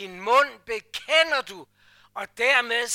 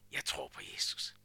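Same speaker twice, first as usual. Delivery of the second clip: timid mumble; 12 dB quieter than usual. Retold or imitated. Too hard to say aloud.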